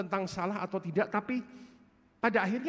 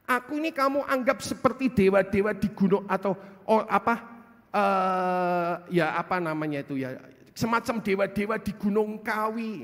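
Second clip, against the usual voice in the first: voicing God; 5 dB louder than usual. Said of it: "dilihat sama Tuhan".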